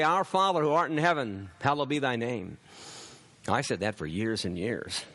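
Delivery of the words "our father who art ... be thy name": quick, mock-flippant prayer recital. Preacher imitating people who say the prayer without meaning it, flippant. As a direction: rattle it off as a rote prayer, imitating lip service. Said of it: "They can flippantly say".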